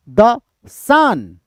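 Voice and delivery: light THE, drawn-out stressed SUN; stress pattern demo. Shown as a demonstration. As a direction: slowly lean on SUN after a short THE. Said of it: "that is unstressed". (SUN पर खींचकर ज़ोर)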